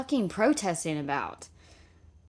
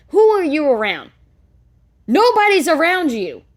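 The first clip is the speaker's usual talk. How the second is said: furious yelling; 5 semitones higher, 3 dB louder than usual. Real, not acted. Furious rant at the mother.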